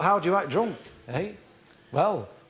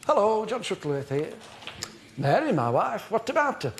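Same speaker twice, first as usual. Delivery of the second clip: quite merry; 2 semitones higher than usual. Shown as a demonstration. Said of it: "I'll be quite merry at first".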